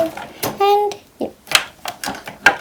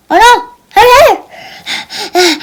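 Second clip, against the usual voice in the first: urgent call; 5 semitones higher, faster than usual. Pretend. Child urging the others to rush, high shout. Sudden alarm in pretend play.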